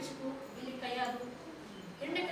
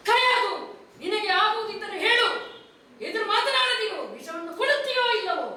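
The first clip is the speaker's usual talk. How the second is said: angry command; 3 semitones higher than usual. Acted. King commands the queen.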